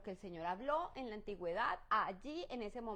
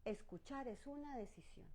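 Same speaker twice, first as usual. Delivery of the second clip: tender reminder; 10 dB quieter than usual. Shown as a demonstration. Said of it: "Así que, cariño".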